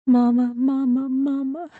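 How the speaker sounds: put-on girl calling to her dead mother; childlike calling. A narrator's reading. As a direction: call out like a frightened little girl.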